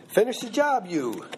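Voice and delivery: lightly voiced Hawaiian Pidgin, Finish the job said high with you tucked after; Hawaiian Pidgin English. Shown as a demonstration. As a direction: Hawaiian Pidgin demo, verb first. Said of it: "kind of a Hawaiian English".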